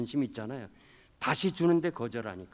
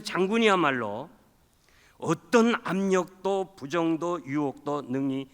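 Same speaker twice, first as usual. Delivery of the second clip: fervent preaching; 3 semitones higher, 8 dB louder than usual. Real, not acted. Preaching at full force.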